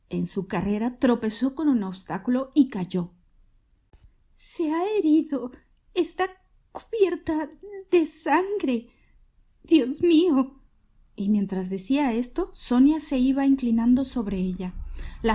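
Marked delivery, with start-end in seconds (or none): 4.3-10.6 aguda y entrecortada; alarmada. A narrator's reading. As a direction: asustada al ver la sangre. Sonia ve la sangre. (Sonia se alarma al ver a su madre herida)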